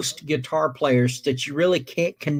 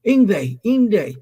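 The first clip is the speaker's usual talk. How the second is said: put-on higher, louder eager kid calling his idol; eager fan; 4 semitones higher, 4 dB louder than usual. Kid calls out to his guitar hero, eagerly. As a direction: imitate a starstruck kid calling out. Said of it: "this kid walks up to him and goes".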